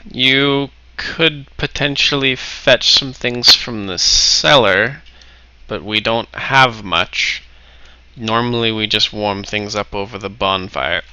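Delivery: slow, measured host, lightly played; lightly voiced innkeeping host. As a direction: answer slowly, thinking it through in character.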